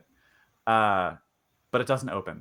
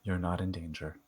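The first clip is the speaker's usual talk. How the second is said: Howard; 3 semitones lower, 9 dB quieter than usual. Acted. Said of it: "he looks up at you and says".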